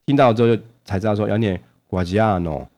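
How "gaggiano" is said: "Gaggiano" with a lengthened stressed "a"; "Gaggiano", uneven syllables, the "a" held longer; drawn-out Italian pronunciation. Shown as a demonstration. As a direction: stretch the middle of "Gaggiano". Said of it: "要有点拉".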